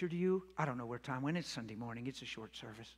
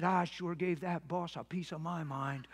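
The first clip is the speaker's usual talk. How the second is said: gruff voice; 4 dB quieter, slower than usual. Retold or imitated. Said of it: "he's in a gruff voice says".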